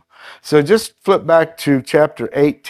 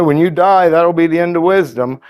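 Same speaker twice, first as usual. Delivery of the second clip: higher-pitched, mildly mocking paraphrase; Job, sarcastic; 4 semitones higher, 3 dB louder than usual. Preacher paraphrasing a retort to accusing friends, sarcastic. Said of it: "so he's kind of sarcastic".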